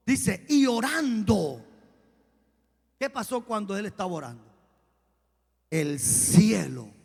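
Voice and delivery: loud preacher's bursts on key words; emphatic preaching. Real, not acted. Preacher retelling Jesus praying to the congregation, emphatic preaching. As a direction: drive the Bible account home, stretching key words.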